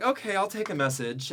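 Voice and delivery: mock wife on the phone. Father's wife answers the phone, mock high voice. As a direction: toss it off like a busy wife taking a call. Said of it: "And so she's like".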